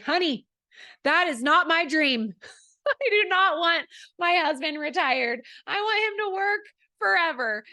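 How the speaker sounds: high, loud imitated Southern woman; Southern accent. Team leader setting her coach straight about her husband, Southern accent. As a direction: mimic an emphatic Southern wife, pitched well up. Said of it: "she has this Southern accent".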